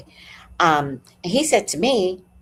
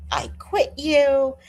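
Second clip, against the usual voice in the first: acted meltdown; 6 semitones higher than usual. Imitating the neighbour quitting her, mock meltdown. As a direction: imitate his meltdown, higher and wounded. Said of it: "He had a full meltdown".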